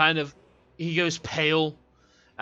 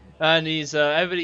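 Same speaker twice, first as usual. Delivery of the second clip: usual speaking voice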